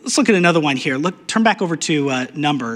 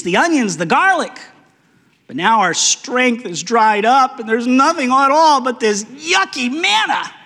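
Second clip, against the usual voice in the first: rising, higher whine toward the end; whining Israelites; 6 semitones higher than usual. Acted. Israelites complain to Moses about manna, whining higher. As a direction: whine about the food like a spoiled child.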